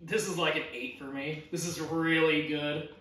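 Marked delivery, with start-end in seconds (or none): 1.5-2.9 talking through a mouthful of ramen; words round a bite of food; mouth full. Real, not acted. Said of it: "I can barely talk while eating it".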